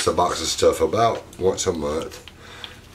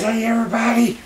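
very high put-on little monkey voice, far from his own; monkey's voice. Owner voicing his pet monkey's hello to viewers, high and squeaky. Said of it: "He says".

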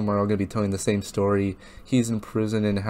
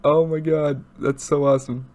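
high, excited gushing; thrilled; 6 semitones higher, 5 dB louder than usual. Real, not acted. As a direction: gush in real awe, voice pitched up. Thrilled reaction right after song ends.

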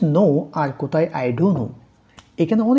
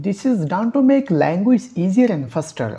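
slow dictation; 4 semitones higher, much slower than usual. Shown as a demonstration. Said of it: "repeats definition slowly".

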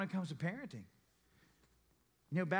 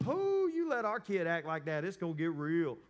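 mock disapproval; 3 dB louder than usual. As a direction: gasp at another parent's lax discipline, hammed up. Voicing couple's unspoken judgment.

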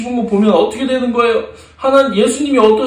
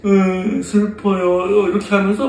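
slow, mildly sorrowful voice; gently mimed heartache, dragged out; sad; slower than usual. Acted. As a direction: draw it out with acted sadness. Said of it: "이렇게 예수님이 슬퍼하세요".

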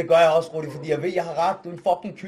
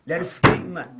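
shouting; 6 dB louder than usual. Real, not acted. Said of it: "det er dig, der råber op".

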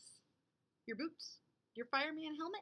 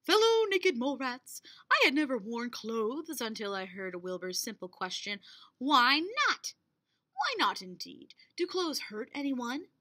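regal proclamation. Acted.

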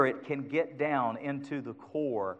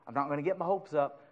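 I'm not gonna get my hopes up, softer and fast; mock doubtful mutter; 6 dB quieter, faster than usual. Shown as a demonstration. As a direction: toss it off quickly and softly as a half-hearted doubt. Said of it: "I don't know".

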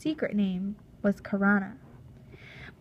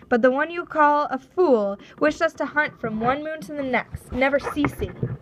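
a slightly raised, firm reply; lightly voiced tribal chief; 5 semitones higher, 5 dB louder than usual. Chief answering the Russian captain, lightly voiced and firm. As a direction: hold firm as the proud chief.

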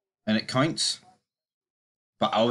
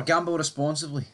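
mock ad disclaimer; 3 semitones higher than usual. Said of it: "I hate the way they say that".

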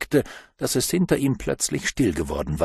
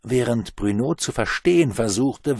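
ordinary delivery, nothing marked

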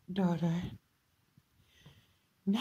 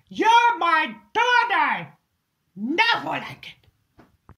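higher, louder, slow cry of grief; anguished shout; 6 semitones higher, 8 dB louder, slower than usual. Acted. Mourning her daughter, anguished shout. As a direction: wail it out for her lost daughter.

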